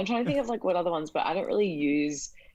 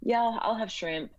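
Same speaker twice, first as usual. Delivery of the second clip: giving in; 7 semitones higher, slower than usual. Retold or imitated. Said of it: "I was like".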